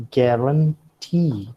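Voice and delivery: "guarantee" with the final "tee" accented and drawn out; stress on last syllable. Shown as a demonstration. Lecturer showing accent can fall late, "guarantee" stressed on its last syllable. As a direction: land the accent on the end of "guarantee". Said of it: "fall upon the last syllable".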